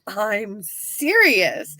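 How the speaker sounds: drawn-out earnest reply; slow and firm. Retold or imitated. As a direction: say it slowly, dead serious. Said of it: "he's like".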